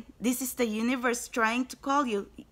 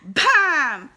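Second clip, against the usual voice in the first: loud bam; 3 semitones higher, 9 dB louder than usual. Real, not acted. Card reveal exclamation.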